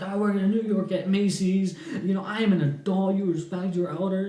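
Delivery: high, self-important lecturing; complaining. Retold or imitated. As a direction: pull rank as the elder.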